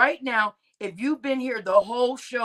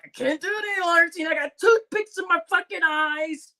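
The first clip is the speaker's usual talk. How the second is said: fast, higher, exhausted whine; tired Black; 6 semitones higher than usual. Retold or imitated. Black staying up late to Tina, fast whiny plea. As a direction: beg to be let off to sleep. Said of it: "Black is like".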